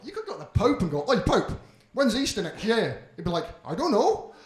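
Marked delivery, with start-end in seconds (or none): 1.1-3.0 calling out cheekily. Acted. Calling out to the Pope. 3.6-4.3 lightly voiced old man, drawn-out; a gentle mock papal shrug; the Pope, only lightly put on. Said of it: "obviously what he sounds like".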